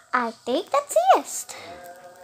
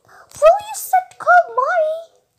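whisper; 13 semitones higher, 10 dB louder than usual. Real, not acted. Kid whispering aside to sibling.

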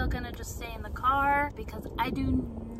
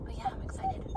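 squeaky excited; 7 dB quieter, faster than usual. Real, not acted.

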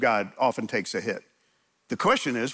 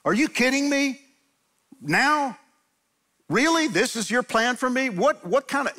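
high, loud exasperated cry at God; loud lament; 10 semitones higher than usual. Shown as a demonstration. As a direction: throw the frustration up at the sky. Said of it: "but I lament out loud".

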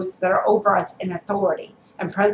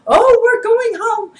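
high, slow mock-dreamy sigh; mocking quote; 12 semitones higher, 4 dB louder than usual. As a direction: parody the naive believers, sing-song. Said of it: "I know everyone's saying".

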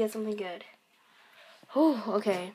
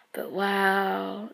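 whispering; 6 dB quieter than usual. Real, not acted. Whispered wow.

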